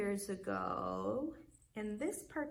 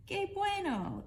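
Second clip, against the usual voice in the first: much higher, louder, pleased; delighted librarian; 10 semitones higher, 4 dB louder than usual. A narrator's reading. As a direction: exclaim it with joy. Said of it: "the librarian says".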